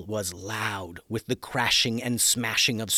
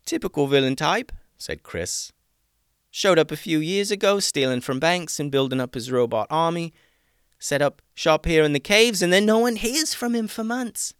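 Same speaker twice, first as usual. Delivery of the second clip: put-on excited young man; 8 semitones higher, 6 dB louder than usual. Chris voiced again.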